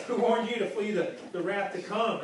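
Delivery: loud, pushed superhero boom; mock Batman bellowing the question; hammed-up Batman impression. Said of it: "That's my best, uh, Batman voice".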